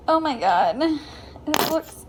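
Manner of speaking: mouth full of peanut butter. Real, not acted. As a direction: mouth full, laughing through it. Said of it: "Can you even talk now?".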